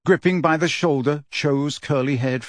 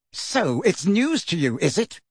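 thick with anger; 5 semitones higher than usual. A narrator's reading. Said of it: "his voice now thick with anger".

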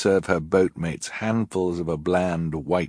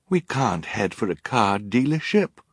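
put-on higher-pitched child's objection; protesting; 4 semitones higher than usual. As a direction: push back against an absurd order. Children confront Olaf's foolishness.

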